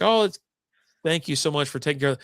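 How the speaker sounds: mock a grateful well-wisher; gushing thanks. Podcaster mimicking grateful commenters, gushing. Voicing gushing neighbours' online replies.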